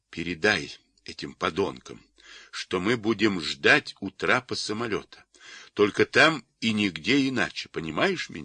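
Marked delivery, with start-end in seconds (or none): none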